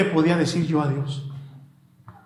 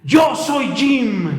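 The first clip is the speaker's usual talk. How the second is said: very slow, each word held; slow declaration; 5 semitones higher, much slower than usual. Retold or imitated. Homeless man telling Jesus his name, very slow. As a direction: draw out every word, pleading. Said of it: "a gritar".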